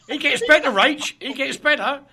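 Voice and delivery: high, loud words through laughter; laughing. Real, not acted. Storyteller to Rach as the tale gets worse, laughing.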